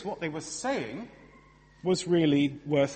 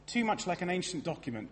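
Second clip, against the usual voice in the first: mock sceptic; 4 semitones higher, 3 dB quieter than usual. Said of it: "if anyone ever says to you".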